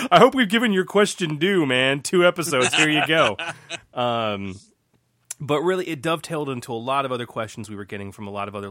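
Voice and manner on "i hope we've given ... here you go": loud. Real, not acted. Enthusiastic shout-out to listener.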